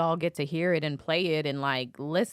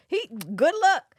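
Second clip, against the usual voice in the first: higher, louder mock caller; caller's voice; 12 semitones higher, 6 dB louder than usual. Host imitating the caller wishing him luck. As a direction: brush him off. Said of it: "He like".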